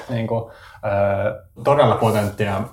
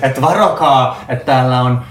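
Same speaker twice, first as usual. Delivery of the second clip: mock shout; 5 dB louder than usual. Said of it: "Mä huudan ihan täysin".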